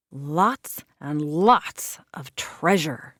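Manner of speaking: greedy whisper. A narrator's reading. Pirate's greedy secret about treasure.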